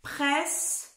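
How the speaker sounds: presque pronounced clearly as prɛsk; clear dictation. Shown as a demonstration. Teacher showing the class how presque sounds, crisp and clear. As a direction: say presque crisply, both consonants sharp. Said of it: "C'est comme ça se prononce".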